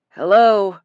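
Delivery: distorted voice over a radio; crackly, echoing radio transmission; muffled radio voice. A narrator's reading. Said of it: "a muffled voice spoke".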